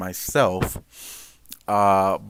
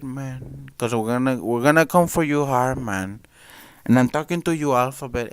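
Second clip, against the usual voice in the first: indignant warning; 4 semitones higher than usual. Real, not acted. Streamer warns the government directly.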